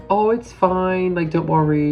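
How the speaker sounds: high, drawn-out soothing voice; imitated reassurance. Staff calming a nervous fan, imitated reassurance.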